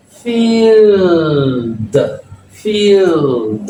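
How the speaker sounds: Field stretched out high with a long EE; exception pronunciation. Shown as a demonstration. Teacher shows the exception word to learners, stretched long EE. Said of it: "except, on va dire".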